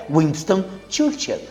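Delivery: "Winston Churchill" dropped soft and deliberate. Acted. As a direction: let the repeat land quietly as a point made. Repeats answer, pointed emphasis.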